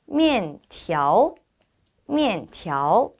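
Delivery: careful 미엔티아오, falling then rising; pronunciation model. Shown as a demonstration. Teacher showing the word for noodles, careful model of 미엔티아오. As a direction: separate 미엔 and 티아오 with clear tones. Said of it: "우리가 표현할 때".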